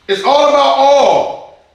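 rising preacher's intensity; fervent preaching. Acted. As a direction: drive it home like a revival preacher. Preacher building to fervent peak.

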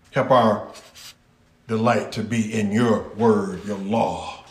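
earnest prayer. Acted. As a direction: pray it low and humble. Prays aloud to God.

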